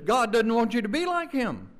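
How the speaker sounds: "like" leaned on, falling; stress on like. Shown as a demonstration. Preacher mocking the devil's lie, stressing "like". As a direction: hit "like" in "be like him". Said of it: "with the emphasis".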